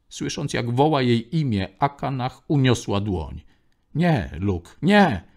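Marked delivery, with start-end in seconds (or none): 3.9-5.2 crying out. A narrator's reading. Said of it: "zawołała".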